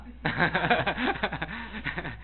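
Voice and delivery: sustained chuckle between sentences; laughter. Real, not acted. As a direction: laugh at your own point. Laughs after his own remark.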